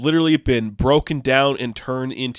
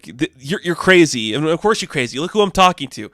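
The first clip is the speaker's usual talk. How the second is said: mocking angry rant; 4 semitones higher, 3 dB louder than usual. 8 Ball snapping at Hank.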